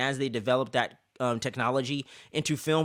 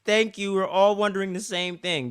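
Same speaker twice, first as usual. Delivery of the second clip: mock eager agreement; 5 semitones higher, slower than usual. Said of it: "And I was like".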